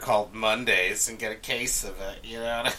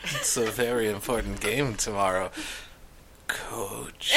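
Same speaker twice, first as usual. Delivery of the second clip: smooth seductive voice; 4 dB quieter than usual. Pretend. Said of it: "try that voice".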